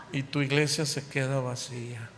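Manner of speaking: ordinary talk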